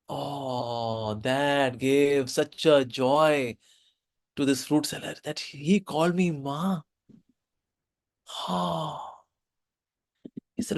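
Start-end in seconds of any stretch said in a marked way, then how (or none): 0.1-9.2 choked with emotion. Real, not acted. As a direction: let the joy catch in the throat. Teller moved to tears.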